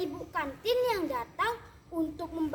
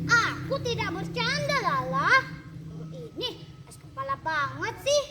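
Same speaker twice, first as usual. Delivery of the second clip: exasperated scolding of a friend, higher and louder; grumbling; 4 semitones higher, 3 dB louder than usual. Acted. Cindy scolds stubborn Lala while walking, grumbling. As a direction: nag her friend, half annoyed. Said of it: "sambil mengomel".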